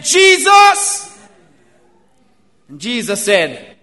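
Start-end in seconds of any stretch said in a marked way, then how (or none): 0.0-1.1 much higher, louder desperate cry. Retold or imitated. Blind Bartimaeus calling to Jesus as he passes, loud high cry. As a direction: call out across the crowd.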